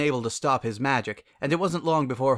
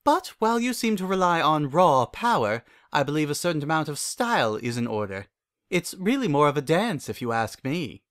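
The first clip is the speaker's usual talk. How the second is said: Rarity's voice; 4 semitones higher than usual. Acted. Rarity voiced explaining style.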